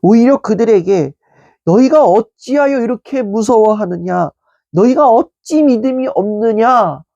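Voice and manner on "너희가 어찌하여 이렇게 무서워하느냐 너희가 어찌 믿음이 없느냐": gently reproving, with stress on 너희가; 너희가를 힘주어 부드럽게 꾸짖듯; mild rebuke. Retold or imitated. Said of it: "라고 책망하셨습니다".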